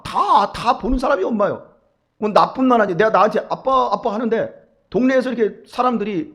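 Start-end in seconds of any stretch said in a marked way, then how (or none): 3.5-4.1 put-on higher childlike call; child calling dad. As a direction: call like a small child tugging at you. (아이처럼 높게 아빠를 부르는 목소리)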